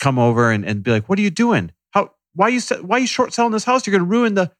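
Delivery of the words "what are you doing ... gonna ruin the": high-pitched, indignant busybody; mock outraged neighbor; obnoxious neighbor. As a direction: pester them in a raised, accusing pitch. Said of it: "the asshole neighbor".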